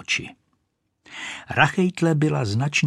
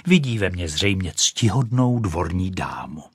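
usual speaking voice

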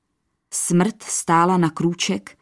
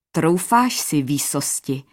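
a skeletal Death taunting the king; mocking Death, words squeezed through the teeth; crooked laugh through teeth. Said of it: "smála se skrz zuby. A hlas jí křivě zněl".

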